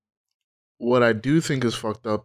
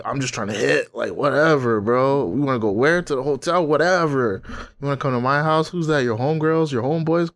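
lightly voiced careless guy, a bit higher; mock horny dude; 3 semitones higher than usual. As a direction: shrug along like a guy who only wants sex. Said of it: "when you just like".

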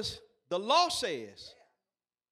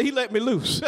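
to your neighbor; 9 dB louder than usual. Shown as a demonstration. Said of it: "touch your neighbor and say".

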